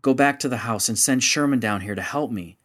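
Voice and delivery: firm, commanding instruction; ordering. Acted. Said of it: "Charlie ordered Gloria Jane".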